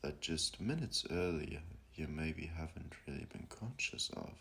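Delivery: contemplative guide, long pauses between phrases; slowing to let each question sink in; guided meditation. Acted. Guiding listeners to ask who they are, meditative voice.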